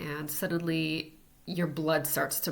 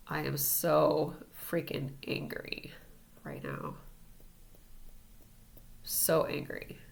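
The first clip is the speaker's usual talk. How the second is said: demo anger mantra; 3 dB quieter, slower than usual. Shown as a demonstration. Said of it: "tapping the inner eyebrow".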